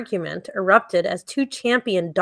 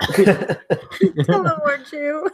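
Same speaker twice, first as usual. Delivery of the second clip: high, slow drawled Tullamore Dew with a laugh; mock Irish drawl; drawn-out Irish; 6 semitones higher, much slower than usual. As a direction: stretch Tullamore out like an Irish brand ad.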